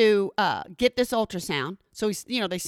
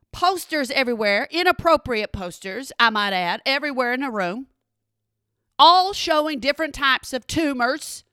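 ordinary talk, nothing marked

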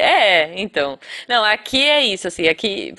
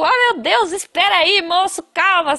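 high, pleading mock panic; retold panic; 9 semitones higher than usual. Herself stuck in the seatbelt pleading with the examiner, mock panic. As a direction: beg him to wait, pitched up.

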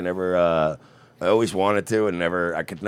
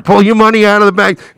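urgent shout; 10 semitones higher, 9 dB louder than usual. Acted. Repeated bank run call.

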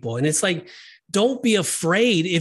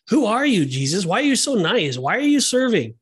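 higher-pitched mock bafflement, each question lifted; imitated amazed questioning; 5 semitones higher than usual. People questioning Jesus about his kindness, imitated bafflement. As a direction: ask like someone baffled by such kindness.

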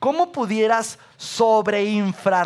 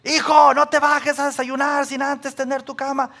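imitating mom; 6 semitones higher than usual. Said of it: "si mi mamá me dice".

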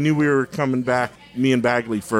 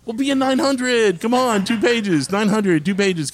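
much higher, slow coaxing; 8 semitones higher than usual. Retold or imitated. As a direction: coax him up high. Retold coaxing the artist.

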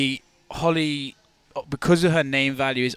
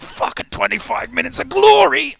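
slow, drawn-out mock hype yell, much higher and louder; 8 dB louder than usual. Cohost recalling his sarcastic thought at the walkout, hammed-up slow yell. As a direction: ham up a sarcastic cheer for a dull fight.

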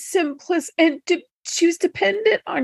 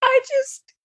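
strangled voice; 9 semitones higher than usual. Real, not acted. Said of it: "I'm choked up".

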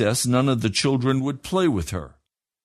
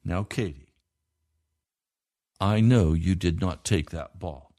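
reassuring; 5 semitones lower than usual. A narrator's reading. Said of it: "I assured her".

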